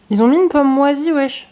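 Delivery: loud, high outraged surprise; surprised indignation. Real, not acted. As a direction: blurt it out, shocked. Finds a mouldy apple.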